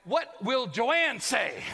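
loud, drawn-out mock dread; comic dread. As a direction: stretch every word in horror. Acted dread of wife's reaction.

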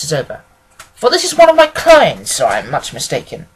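assured lecture with lively emphasis; lightly voiced analytical detective. Detective expounding his theory of small cases, lightly voiced and assured. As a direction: hold forth like a self-assured sleuth. Holmes holding forth in story.

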